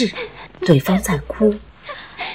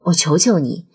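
exasperated; 4 semitones lower than usual. Acted. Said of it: "烦躁郁闷的想大喊大叫".

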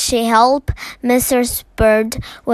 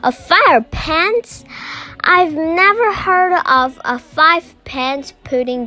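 high-pitched, incredulous little bear; astonished; 6 semitones higher than usual. A narrator's reading. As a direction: protest in shocked disbelief, pitch raised. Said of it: "nearly falling off his chair".

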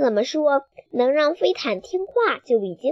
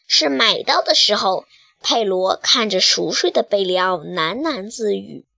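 usual speaking voice

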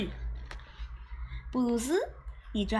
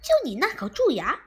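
大声嘲弄挑衅; 亮出爪子吓唬对方; 张牙舞爪地叫; 5 dB louder than usual. Acted. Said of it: "张牙舞爪地叫了起来". (张牙舞爪地大声叫嚷)

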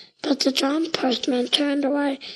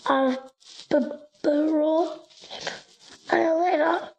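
stammering; 4 semitones higher than usual. A narrator's reading. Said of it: "Billy stammered".

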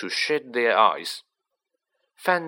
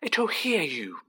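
frantic; 8 semitones higher than usual. A narrator's reading. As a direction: plead frantically for silence. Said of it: "said Harry frantically".

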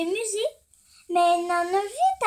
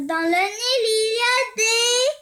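alarmed warning; 5 semitones higher, 3 dB louder than usual. Acted. Camel warning about crocodile.

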